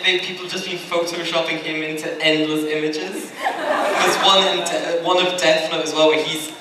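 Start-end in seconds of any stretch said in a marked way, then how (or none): 3.3-6.5 louder, slow, laughing through the end; can't hold back the laugh describing it. Real, not acted. Panelist amused by a meme, laughing.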